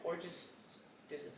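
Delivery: breathy whispered joke; whispered aside. Real, not acted.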